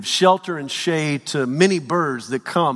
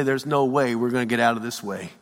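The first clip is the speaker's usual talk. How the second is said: despairing; 4 semitones lower than usual. Retold or imitated. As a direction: say it as if all hope is gone. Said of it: "we experience the chaos of no way".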